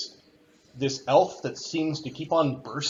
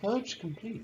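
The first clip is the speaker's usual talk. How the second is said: gentle, soft, high British woman's voice; 8 semitones higher, 7 dB quieter than usual. Game master voicing an announcement the players hear, soft British female voice. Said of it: "You hear this soft British female voice that says".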